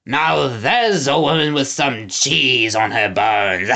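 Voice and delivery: put-on slow hearty young lord. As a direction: agree with gusto. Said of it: "agreed heartily".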